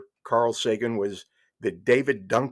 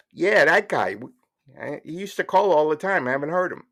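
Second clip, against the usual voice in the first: higher, eager put-on caller voice; radio caller; 6 semitones higher, 4 dB louder than usual. Caller pressing Larry King about a missing regular, put-on voice. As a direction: answer back pitched up, as the caller.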